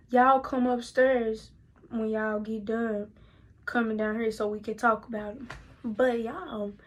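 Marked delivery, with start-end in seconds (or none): 0.1-5.4 measured retold order, loud at first; stern father.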